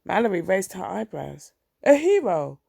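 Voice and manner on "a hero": bright, lifted "a hero"; admiring exclaim. A narrator's reading. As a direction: exclaim it with a grin.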